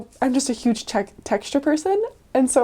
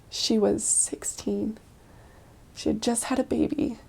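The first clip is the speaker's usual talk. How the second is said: hushed, unvoiced aside; whisper; 7 dB quieter than usual. Real, not acted. Whispering to the viewer about the girl at the door. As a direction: drop to a whisper about her age.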